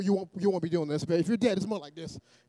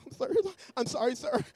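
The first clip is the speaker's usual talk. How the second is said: meek apology; 7 semitones higher than usual. Acted. Mimics meek people backing down.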